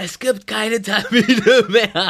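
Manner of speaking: mock, very slow, drawn-out bellowed shouting. Speaker retells an older security guard yelling at a group in a queue, retelling a guard's shout. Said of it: "brüllt gerade so in so eine Gruppe".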